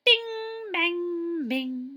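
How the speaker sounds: high, loud playful bing bang; playful sound words. Acted. Librarian playfully sounding out noises for kids. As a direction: ring out the sounds like bells.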